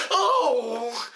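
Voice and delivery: a short, lightly voiced over-the-top yelp; a quick nod to a hammy villain cry; Jim Carrey impression. Reviewer mocking an over-the-top villain, mild yelp. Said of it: "over the top like Jim Carrey going".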